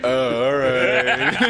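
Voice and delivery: Gloop voice. Acted. Gloop answers the partygoers.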